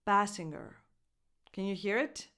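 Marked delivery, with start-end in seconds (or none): 0.1-0.7 "Basinger" with an ng sound, no J; falling "Basinger", G barely released after the N; weak hard G. Shown as a demonstration. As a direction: say "Basinger" as BASS-ing-er. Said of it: "it's not a strong G sound".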